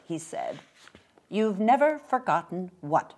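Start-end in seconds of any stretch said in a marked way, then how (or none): 1.3-3.1 a touch higher, demanding; mildly stern, suspicious query; stern question. Acted. Mother questions the old man, sternly. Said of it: "my mother asked sternly".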